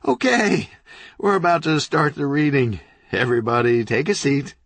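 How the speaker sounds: loud, high announcement to the room; commanding call. Acted. Owner ordering the crowd to sit, a loud call. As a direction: clap and call everyone to order. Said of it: "clapping his hands sharply".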